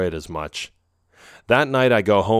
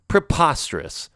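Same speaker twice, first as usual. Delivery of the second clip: rhetorical; 7 semitones higher than usual. A narrator's reading. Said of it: "she asks rhetorically".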